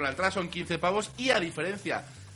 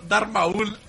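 "Maul" slowly questioned as ma-ÚL; stress on the U; 3 semitones higher, 4 dB louder than usual. Retold or imitated. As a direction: imitate the misplaced stress, stretching the U of "Maul". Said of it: "tiene acento en la U".

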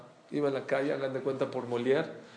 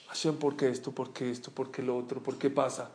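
much softer, lower plaintive asking; a person quietly asking God why things happen; soft pleading questions; 4 semitones lower, 7 dB quieter than usual. Retold or imitated.

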